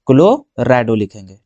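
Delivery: low, drawn-out dictation of the term; slow dictation. Real, not acted. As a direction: stretch it out as you write. Dictating the term while writing it.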